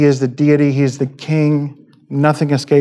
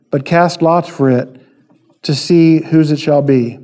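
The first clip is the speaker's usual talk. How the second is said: raised, steady reading of a Bible passage; scripture reading. Acted. Preacher reading John to the congregation, lifted and steady. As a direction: read the verses out with clear emphasis.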